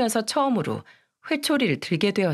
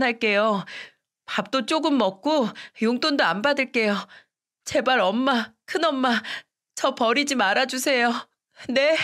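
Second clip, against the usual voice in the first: put-on a frightened child begging, higher; pleading girl; 4 semitones higher than usual. Daughter begging her mother not to abandon her, pleading. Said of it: "예빈이가 ... 뭐라고 했는지 아세요".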